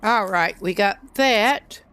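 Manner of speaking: slurping a hot drink between words. Real, not acted. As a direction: talk between sips of hot tea. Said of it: "Try to keep these slurping noises".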